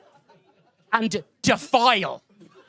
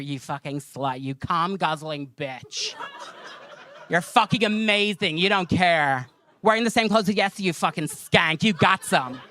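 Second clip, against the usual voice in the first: lightly imitated coworker gushing insults; mock-admiring insults in a coworker's voice; Brandy; 2 semitones lower than usual. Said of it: "And Brandy goes to her".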